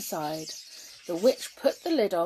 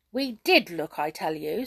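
cross; 6 dB louder than usual. Acted. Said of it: "said Skip crossly".

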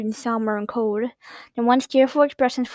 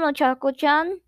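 cooed; 5 semitones higher than usual. A narrator's reading. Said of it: "a voice cooed from the back".

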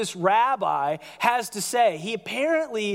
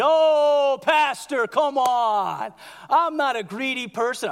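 protesting congregant; 3 semitones higher, 3 dB louder, slower than usual. Retold or imitated. Congregant objecting to the pastor.

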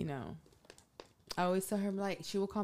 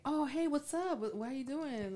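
retold casual greeting; 8 semitones higher than usual. Acts out friends reuniting casually.

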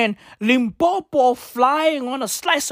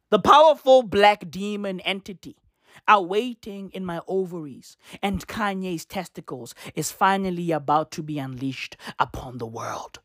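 low, measured read-out of a post; solemn low recital of an ominous quote; 7 semitones lower than usual. Retold or imitated. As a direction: intone it gravely, dropping lower toward the end. Reads out her ominous post.

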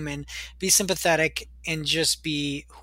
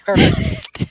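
excited; 8 dB louder than usual. Real, not acted. Delighted reply.

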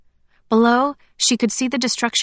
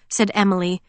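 plain reading voice

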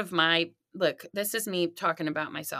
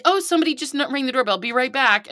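fake excuse; 6 semitones higher, 5 dB louder than usual. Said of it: "I'll be like".

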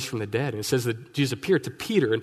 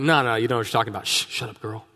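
fast, flustered brush-off; hurried denial; 3 semitones lower, faster than usual. Retold or imitated. Peter hastily denying Jesus to a girl by the fire, flustered. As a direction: shush her quickly before anyone hears.

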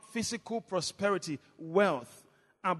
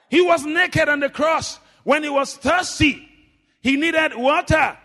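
raised-pitch sermon delivery; preaching; 6 semitones higher, 6 dB louder than usual. Real, not acted. Preacher telling of the thirst on the cross, preaching. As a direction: preach it out to the congregation.

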